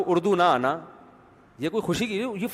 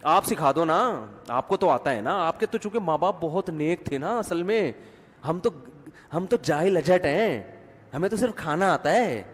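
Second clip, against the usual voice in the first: sarcastic retort. Retold or imitated. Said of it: "تو وہ جواب میں پھر وہی کہے گی".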